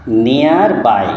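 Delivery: "নিয়ার বাই" drawn out slowly in two parts; slow teaching pronunciation of "নিয়ার বাই"; two syllables. Shown as a demonstration. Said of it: "কিন্তু দুটো syllable আছে".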